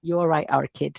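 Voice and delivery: soft, relaxed Mancunian; quiet Mancunian accent. Shown as a demonstration. Repeating the Manchester greeting for the host, softly Mancunian. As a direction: toss off the Manchester phrase quietly. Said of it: "es como se dice en Manchester".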